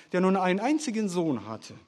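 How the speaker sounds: ordinary talk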